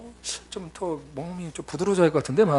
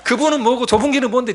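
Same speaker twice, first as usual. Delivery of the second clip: loud, high-pitched retold complaint; heated mock protest, raised voice; mock angry outburst; 7 semitones higher, 8 dB louder than usual. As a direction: imitate an irritated friend objecting to the song. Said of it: "막 성질 내는 거예요".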